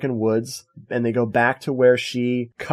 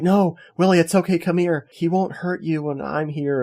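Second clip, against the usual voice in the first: lightly higher, coaxing heroine voice; mock heroine; 5 semitones higher than usual. Retelling the heroine calling the kid back, lightly coaxing. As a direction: coax the kid closer, mildly. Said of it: "And she's like".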